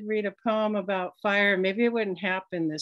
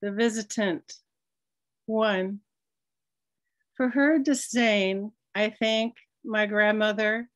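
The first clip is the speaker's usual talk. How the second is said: measured recital, pausing between images; reading a poem at a public event; poetry reading. Acted. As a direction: hold each line, let the silence work. Poet reads title poem.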